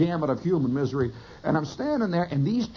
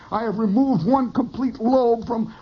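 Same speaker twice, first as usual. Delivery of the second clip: lightly pompous surgeon, raised pitch; majestic brain surgeon; 6 semitones higher than usual. Pretend. Storyteller imagines himself a brain surgeon, mock majestic. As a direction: declaim it with mock-majestic pride. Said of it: "I saw myself as this majestic brain surgeon".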